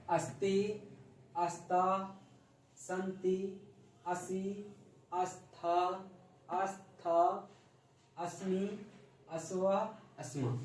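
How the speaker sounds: clear, measured chanting of each pronoun for pupils to repeat; recitation drill. Shown as a demonstration. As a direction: spell out every word slowly like a teacher leading the class. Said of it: "उसके बाद बोलिए मेरे पीछे".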